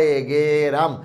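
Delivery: এ গে রাম said in separate syllables; syllable split. Shown as a demonstration. Teacher repeating গেরাম syllable by syllable. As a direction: break it into গে রাম. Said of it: "আবার বলি".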